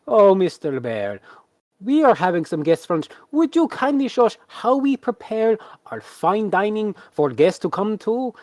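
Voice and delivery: high, theatrical showman addressing his bear; courteous ringmaster. Acted. Ringmaster asks his bear to serve guests, showy politeness.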